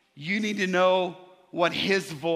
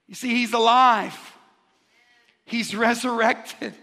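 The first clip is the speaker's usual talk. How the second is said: raised, emphatic sermon voice; emphatic preaching; 4 semitones higher, 3 dB louder than usual. Acted. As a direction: preach it with conviction to the room. Preaches to a congregation.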